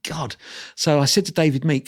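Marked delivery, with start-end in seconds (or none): 0.1-0.4 dreading the name. Retold or imitated. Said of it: "anyway, I thought".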